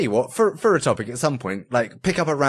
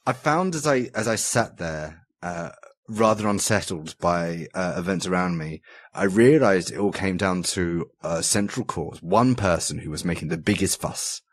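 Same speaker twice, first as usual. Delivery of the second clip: mock formal recital; 3 semitones lower than usual.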